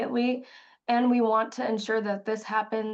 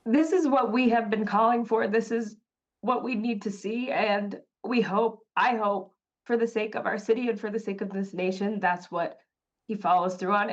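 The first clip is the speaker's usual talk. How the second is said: getting emotional; 2 semitones higher than usual. Real, not acted. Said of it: "I'm sorry, I'm getting emotional".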